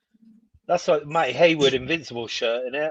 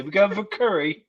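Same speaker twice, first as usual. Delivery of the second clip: higher-pitched mimicry of mates; mates' teasing quote; 7 semitones higher than usual. Guest quoting mates who hammer him, higher teasing mimicry. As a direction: lift the pitch, mimicking the ribbing. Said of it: "They say".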